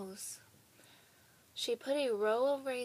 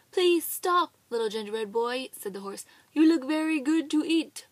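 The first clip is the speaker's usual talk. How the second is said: hungry horse; 3 semitones higher, 10 dB louder than usual. Acted. Horse voiced in story.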